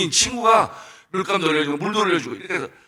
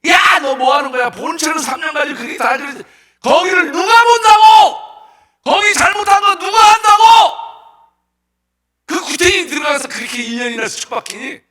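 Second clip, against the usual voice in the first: 높고 크게 내지르는 성난 고함 연기; 답답해서 위에 대고 따지듯 소리쳐; 9 semitones higher, 9 dB louder than usual. Acted. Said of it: "그 친구가 화가 이만큼 난 거야". (화가 잔뜩 나서 고함치는 연기)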